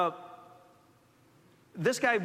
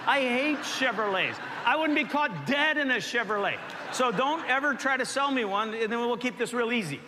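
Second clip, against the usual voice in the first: mock outraged rant; 3 semitones higher than usual. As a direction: play up fake indignation at Chevrolets. Joking refusal to neighbor.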